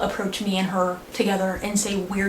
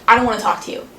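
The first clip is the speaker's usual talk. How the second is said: angry; 2 semitones higher, 6 dB louder, much faster than usual. Retold or imitated. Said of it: "I, like, shooed him off".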